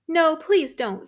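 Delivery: high, loud plea; a frightened princess begging loudly; pleading princess. Acted. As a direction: beg her mother not to.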